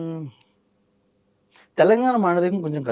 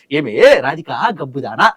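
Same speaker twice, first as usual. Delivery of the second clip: Jayaprakash Reddy impression; 3 dB louder than usual. Mimicry artist scolds Radhika as Jayaprakash Reddy, mock contempt. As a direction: scold Radhika as the old villain actor would. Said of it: "ఈ dialogue ని జయప్రకాష్ రెడ్డి గారు చెప్తారు".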